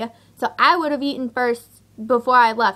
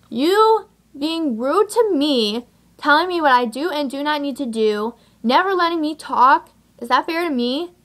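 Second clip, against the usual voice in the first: indignant scolding; 4 semitones higher than usual. Retold or imitated. Acted scolding of date.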